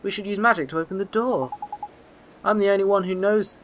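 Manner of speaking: lightly acted young lad making up his mind; determined boy hero. Boy deciding to use magic on the door, determined.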